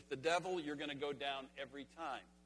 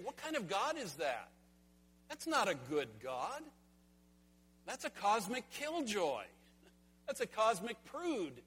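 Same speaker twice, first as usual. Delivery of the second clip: mocking sneer; 5 semitones higher than usual. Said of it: "He's saying".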